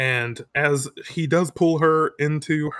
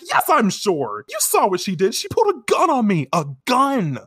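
mock panic; 7 semitones higher, 3 dB louder than usual. Podcast host acting out Usagi's panic about the gun, climbing higher and faster.

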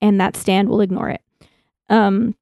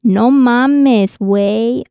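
loud Mexican No mames, güey; mock Mexican slang; Mexican accent; 2 semitones higher, 3 dB louder, much slower than usual. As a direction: punch it like a Mexican friend. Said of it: "That's the best I can do".

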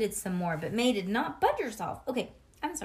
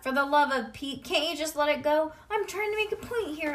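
put-on louder, higher fed-up kid; higher exasperated child; 6 semitones higher, 4 dB louder than usual. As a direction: throw up your hands. Junie exasperated.

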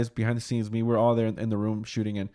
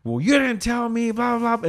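much higher mock protest; mimicking mom; 11 semitones higher than usual. Son retelling mom's complaint on set, in a much higher mock whine. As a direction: whine it back as mom's excuse.

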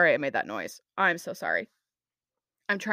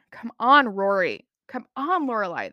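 louder, pleading come on at the characters; real fed-up groan at the show; exasperated; 5 dB louder than usual. Real, not acted. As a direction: scold the TV characters in frustration.

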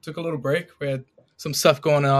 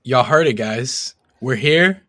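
hyped intro; 7 dB louder than usual. Real, not acted. Opening the podcast with hype.

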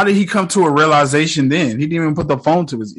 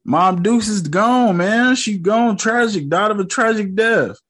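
mock tragic; 8 semitones higher than usual. Mock mourning in higher voice.

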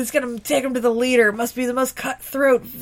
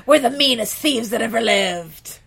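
put-on Irish accent; 2 semitones lower, 3 dB louder than usual. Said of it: "in thick Irish accents".

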